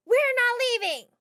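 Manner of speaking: high, loud fan yell. Acted. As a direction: shout it defiantly at the house. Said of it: "One of them yelled".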